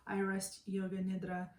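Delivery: calm, unhurried meditation guide with long pauses; guided meditation. Acted. Meditation teacher settling listeners lying down for yoga nidra, calm guided meditation. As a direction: ease them into stillness, pausing between phrases.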